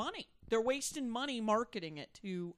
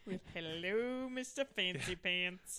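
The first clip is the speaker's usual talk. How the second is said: slow, drawn-out sarcastic hello; exaggerated mock-impressed greeting; 2 semitones lower, slower than usual. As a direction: stretch out a teasing put-down. Echoing the mocking greeting.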